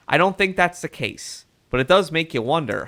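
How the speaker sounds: lightly voiced mid-Atlantic reporter; mild mock mid-Atlantic accent. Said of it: "like, a mid-Atlantic accent".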